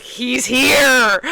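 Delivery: mildly giddy fan exclamation; drawn-out excited reaction, retold; retold starstruck excitement. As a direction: relive spotting your idol, lightly. Retelling seeing the actor, thrilled.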